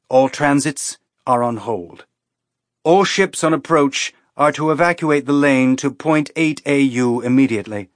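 formal, emphatic emergency bulletin; official alert. A narrator's reading. Military command halts all ships at gates, official alert. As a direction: announce the order with firm authority.

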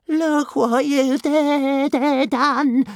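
high, drawn-out dragon whine; high-pitched stammering creature wail; moaning. A narrator's reading. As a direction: moan it slowly, stuttering in dismay. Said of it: "moaned Toothless".

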